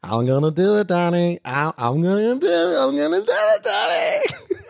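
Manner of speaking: amerikanischer Akzent, lachend hochsteigend; American accent. Retold or imitated. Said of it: "Plötzlich ist so ein amerikanischer Akzent". (amerikanischer Akzent mit Lachen)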